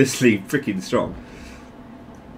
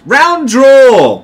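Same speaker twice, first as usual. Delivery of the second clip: higher, louder exclaim; loud announcement; 11 semitones higher, 9 dB louder than usual. Real, not acted. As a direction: call out the result. Game round ends.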